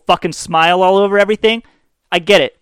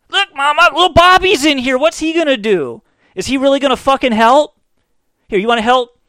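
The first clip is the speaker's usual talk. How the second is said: higher, louder hammed-up mom; mock mother voice; 9 semitones higher, 4 dB louder than usual. Mother talking about little Bobby, hammed-up high voice. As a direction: play the fed-up mother.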